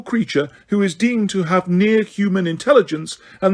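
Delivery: high, prim official voice; Umbridge reciting the law. Acted. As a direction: lecture like a pompous official, pitch up.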